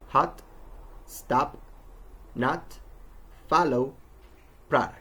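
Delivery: "hot, stop, nut, follow, product" with an open "ah"; O pronounced "ah". Shown as a demonstration. Teacher showing a spelling exception, "ah" in "hot, stop, nut, follow, product". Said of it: "are actually pronounced with a".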